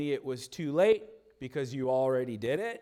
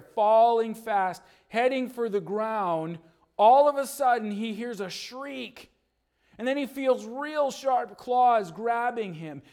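dramatic narration; 5 semitones higher, 7 dB louder than usual. A narrator's reading. Storyteller narrating the rescue, loud and suspenseful.

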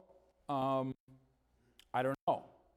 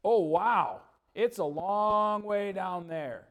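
awed little eaglet; 2 semitones higher, 3 dB louder, slower than usual. Acted. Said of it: "Junior starts walking over... looking down".

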